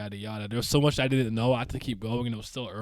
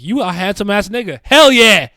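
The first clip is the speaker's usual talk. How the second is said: high, loud, excited mock hype; hyped pretend shout; 6 semitones higher, 13 dB louder than usual. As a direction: shout it like you're gassing him up. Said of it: "I'd just be like".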